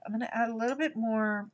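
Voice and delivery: fast, brisk restatement; quick repeat. Real, not acted. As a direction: rattle it off quickly.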